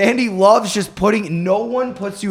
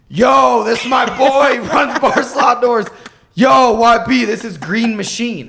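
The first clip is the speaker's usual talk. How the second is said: Vandy; 5 semitones higher, slower than usual. Retold or imitated. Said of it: "this is what Vandy does".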